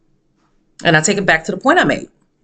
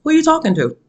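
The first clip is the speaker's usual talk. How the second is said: retold question, pitched up but not shouted; calm, no yelling; 9 semitones higher, faster than usual. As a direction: ask it with control, no disrespect. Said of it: "No yelling, no screaming, no disrespect".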